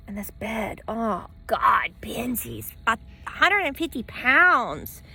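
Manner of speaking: hushed, slow aside; whisper. Real, not acted. To herself about the heavy dog, whispered. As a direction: breathe it out under your breath.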